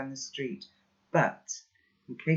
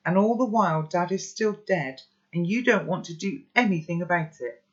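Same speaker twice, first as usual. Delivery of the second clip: rising, louder protest; angry outburst; 4 semitones higher, 4 dB louder than usual. Acted. Boy yelling at his grandpa in anger. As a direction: push back hard and get more heated.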